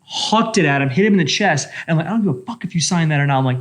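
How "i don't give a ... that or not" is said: angry. Retold or imitated. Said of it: "I am flipping shit".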